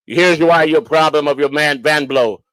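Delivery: put-on slow Polish-accented broken English. Inspector diagnosing the blown van, Polish accent. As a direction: imitate a Polish mechanic, spelling it out slowly. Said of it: "he sounded Polish to me".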